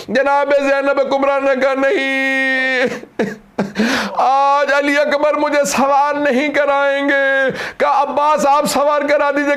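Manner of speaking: sing-song grief pitched far above the sermon voice; high wailing majlis climax. Acted. Preacher wailing Zainab's farewell to the mourners, high keening lament. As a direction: climb high and hold a keening, slow lament.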